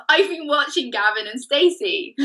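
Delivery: high, lilting Welsh accent. Shown as a demonstration. Co-host confessing a TV binge to the host, Welsh accent. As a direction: lean into a playful Welsh lilt. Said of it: "my Welsh accent has returned".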